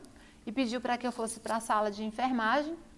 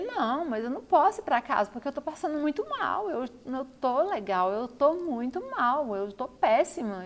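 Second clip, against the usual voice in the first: raised, pleading voice, slowing at the end; distressed pleading; 3 semitones higher, 4 dB louder than usual. Retold or imitated. Patient pleads with the nurse not to be sent home, distressed and raised. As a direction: beg to stay, feeling awful.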